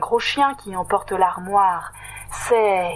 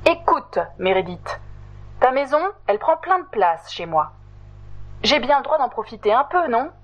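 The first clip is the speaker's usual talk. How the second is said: angry too; 4 semitones higher than usual. Acted. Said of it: "Totoche se fâche, lui aussi".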